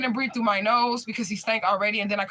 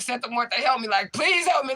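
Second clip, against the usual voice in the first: pleading prayer; 5 semitones higher than usual. Retold or imitated. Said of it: "praying, petitioning".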